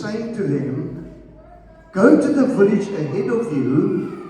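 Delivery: slow, measured Bible reading with long pauses; scripture reading. Acted. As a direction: read scripture aloud deliberately, phrase by phrase. Reads scripture aloud to congregation.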